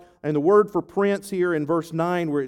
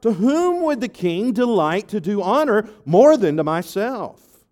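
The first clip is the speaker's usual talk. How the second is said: proud inner thought; 3 semitones higher, 5 dB louder than usual. Acted. Haman's proud thought acted out.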